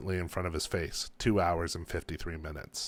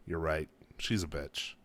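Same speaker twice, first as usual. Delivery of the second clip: defeated; 4 semitones lower, 7 dB quieter than usual. A narrator's reading. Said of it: "he said, defeated".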